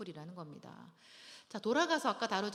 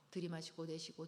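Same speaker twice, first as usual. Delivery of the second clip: calm breathing cue; 3 semitones lower, 5 dB quieter than usual. Shown as a demonstration. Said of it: "먼저 호흡하세요".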